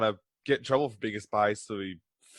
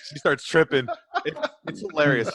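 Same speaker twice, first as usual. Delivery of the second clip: laughing; 4 semitones higher than usual. Real, not acted. Laughing at the story.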